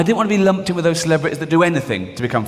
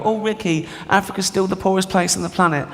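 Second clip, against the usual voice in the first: lightly voiced earnest charity pitch, a bit higher; a hint of a pleading do-gooder; Richard Curtis; 4 semitones higher than usual. Charity boss on the phone to Ricky, lightly pleading. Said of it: "call me up and go".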